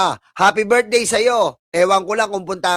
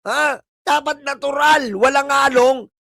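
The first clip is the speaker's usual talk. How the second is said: angry taunt; 3 semitones higher than usual. Real, not acted. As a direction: scold the viewer, building to a shout. Taunting the viewer again.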